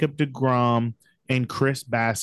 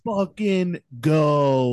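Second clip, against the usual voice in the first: hype shout; 3 semitones higher, much slower than usual. Real, not acted. Hyped podcast cheering.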